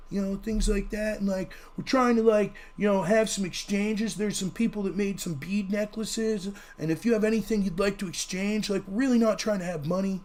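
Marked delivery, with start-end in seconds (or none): 1.8-10.2 lightly voiced hippie, softly rambling; fake hippie. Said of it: "my fake hippie voice there".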